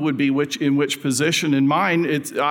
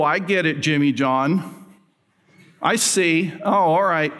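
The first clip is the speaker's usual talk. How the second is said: mildly put-out, knowing mock indignation; indignant disciples. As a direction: act lightly bothered, as if catching the brothers out. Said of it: "they were indignant at the two brothers".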